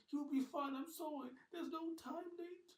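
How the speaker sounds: high, loud and hurried; urgent apology. Acted. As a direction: push him on. Ben hurries Nate while fleeing.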